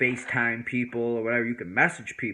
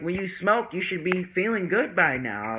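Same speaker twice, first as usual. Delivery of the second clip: teasing friends; 8 semitones higher than usual. Retold or imitated. Friends tease him.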